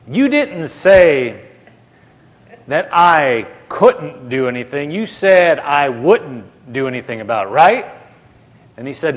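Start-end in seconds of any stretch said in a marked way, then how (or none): 0.1-7.9 slow, pausing before "couldn't", questioning rise on "right"; checking a contested word. Retold or imitated. Brother Hagin checking he heard Jesus right, puzzled emphasis. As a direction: set "couldn't" against "wouldn't", then seek agreement.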